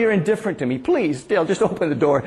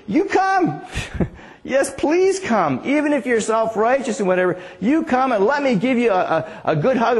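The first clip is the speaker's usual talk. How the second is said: warm invitation; 5 semitones higher than usual. Acted. Jesus voiced inviting Pharisees warmly.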